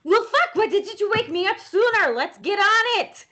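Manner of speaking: high, indignant in-character outburst; worked-up, acted call to action; urgent rallying cry. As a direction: rouse everyone for a fight, high-pitched. Character roused for a fight.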